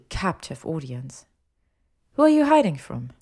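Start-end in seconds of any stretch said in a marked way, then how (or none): 2.1-3.1 high, loud challenge; demanding. A narrator's reading. Hermione grills a captive Malfoy, demanding. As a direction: press for an answer.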